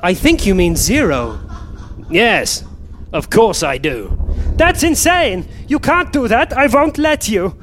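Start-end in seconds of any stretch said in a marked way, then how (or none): 4.5-7.5 high squeaky self. Acted. One self fighting another self.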